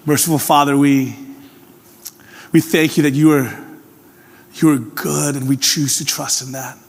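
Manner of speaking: earnest prayer voice; gentle closing prayer; pastoral prayer. Acted. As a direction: pray it sincerely to God. Leads a prayer.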